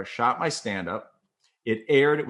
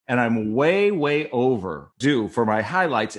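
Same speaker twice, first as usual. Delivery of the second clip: leaning hard on a drawn-out WAY; mildly emphatic mock insistence; insistent; 5 dB louder, slower than usual. Acting out anchor's insistent demand.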